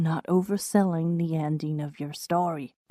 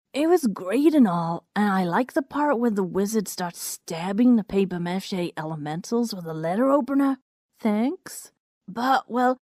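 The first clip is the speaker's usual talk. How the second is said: lightly voiced Rainbow Dash; 3 semitones higher than usual. Rainbow Dash critiques the story.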